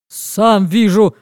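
slow, mildly irritated bark; a hint of a cranky father; irritated snap. Father snapping at his wife that he can see. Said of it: "раздражённо рявкает папа".

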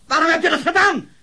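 high, loud shrieking repeat of the question; hysterical outburst. Acted. Suspect to detective, hysterical loud demand. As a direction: escalate the question into a scream.

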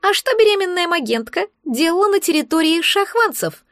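pry with eager interest; curious egg creature. Acted. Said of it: "заинтересовалось существо".

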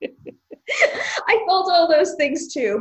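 laughing. Real, not acted. Laughing at offensive ad.

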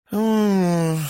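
high sleepy hum through closed lips; groggy mumble of protest. Acted. Sleeping Lena mumbles at the hero waking her. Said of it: "пробормотала она".

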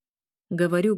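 usual speaking voice

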